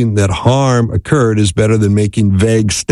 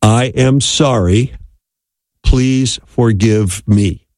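sincere apology; slower than usual. Shown as a demonstration. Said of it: "simply say these six very powerful words".

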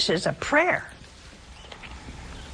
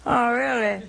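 mock doubt. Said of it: "and they go".

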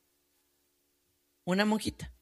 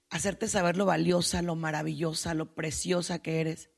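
lower, gentle affirmation; tender reassurance; 4 semitones lower than usual. Retold or imitated. Speaker tells a woman she is precious, tender reassurance.

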